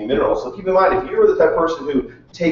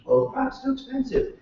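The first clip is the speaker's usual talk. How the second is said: mock whiny complaint; 12 semitones higher, 7 dB quieter than usual. Mocking a stingy customer.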